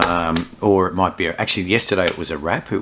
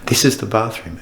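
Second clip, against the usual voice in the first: mock estate agent; 4 semitones higher than usual. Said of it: "like real estate agents, show you".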